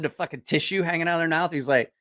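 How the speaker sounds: usual speaking voice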